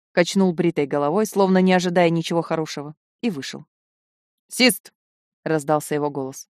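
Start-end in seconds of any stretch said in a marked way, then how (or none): 4.5-4.9 calling out. A narrator's reading. Calling a servant from outside.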